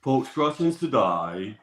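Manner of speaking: slow, drawn-out Wolverhampton accent; jokey Wolves fan's Wolverhampton accent. Shown as a demonstration. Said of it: "do your best Wolverhampton accent".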